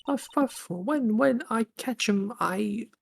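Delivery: put-on high, winded old lady panting; out of breath. Old lady still winded from the chase, panting high. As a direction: gasp out the words between breaths. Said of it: "Sounds like she hasn't had".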